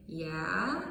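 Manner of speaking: "Yeah" with a doubtful rise; unsure yeah. Shown as a demonstration. Teacher showing an unsure yes: rising "Yeah". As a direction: let "Yeah" lift, not quite sure. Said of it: "with a tone ... Yes, but I'm not sure".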